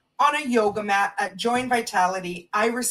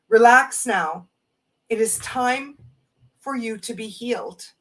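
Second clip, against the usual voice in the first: calm reverent recitation; oracle card reading. Real, not acted. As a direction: read it as a gentle blessing. Reading the whole card message.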